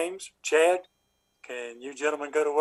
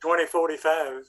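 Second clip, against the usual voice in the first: dictating. Shown as a demonstration. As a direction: spell it out for the clerk. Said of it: "watch me say it".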